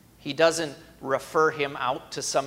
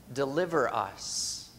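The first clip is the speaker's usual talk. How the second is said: quiet prayer. Acted. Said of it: "from all of the struggles".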